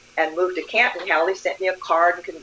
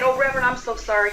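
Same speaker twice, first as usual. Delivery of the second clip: quick, higher, gushing sorry; mock apology; 6 semitones higher, faster than usual. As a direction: rush the apology, a bit higher. Retold apology to reverend.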